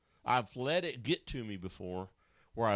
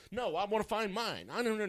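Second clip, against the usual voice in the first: high, fretful mock panic; panicky whiner; 8 semitones higher than usual. A person making a crisis out of lost keys, high whiny panic. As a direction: play someone melting down over keys. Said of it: "just use the spare set".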